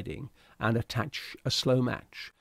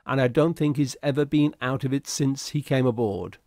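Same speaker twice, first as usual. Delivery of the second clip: a raised, eager ship's steward; 3 semitones higher, 5 dB louder than usual. Acted. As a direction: report briskly up to the captain, a bit louder. Steward reports to captain.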